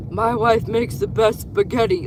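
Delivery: put-on Italian accent. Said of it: "like, this Italian couple".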